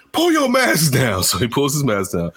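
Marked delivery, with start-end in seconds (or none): 0.1-1.2 high, slow, firm order; mock bossy daycare lady. Daycare woman to kid, slow mock order. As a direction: spell out the command. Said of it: "she's like".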